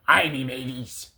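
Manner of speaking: put-on short pirate greeting, pirate accent; pirate "Ay, me mateys" tossed off lightly. Player retrying the pirate line for viewers, pirate accent. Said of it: "I can do that".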